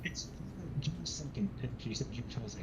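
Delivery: muffled bad mic; like talking underwater; underwater sound. Real, not acted. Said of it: "why are you underwater right now".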